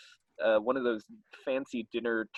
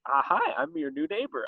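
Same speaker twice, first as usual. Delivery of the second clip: high-pitched comic greeting; chirpy creature; 13 semitones higher than usual. Acted. Creature greeting the couple next door, mock friendliness. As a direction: introduce yourself in a put-on high voice.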